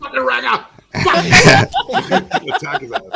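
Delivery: high, loud, half-laughed insult; laughing mock yell. Greeting a redhead arrival, laughing mock yell. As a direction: screech it through laughter.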